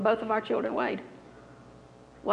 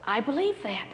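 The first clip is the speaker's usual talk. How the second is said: quietly matter-of-fact, understated; very calm reply; 4 dB quieter than usual. Retold or imitated. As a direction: answer her with unruffled calm. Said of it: "I said very calmly".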